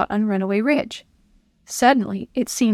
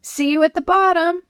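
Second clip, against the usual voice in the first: called out; 8 semitones higher than usual. Acted. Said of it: "Chris called as he pulled ahead".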